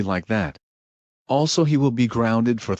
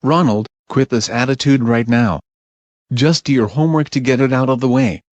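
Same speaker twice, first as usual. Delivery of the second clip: louder, stern telling-off; mother warning her son to drop the attitude, stern; firm scolding; 5 dB louder than usual. Acted. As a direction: lay down the law with a rising temper. Mother losing patience.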